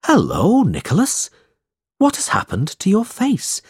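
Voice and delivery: calling out. Acted. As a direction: call out to a friend approaching. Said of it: "called out".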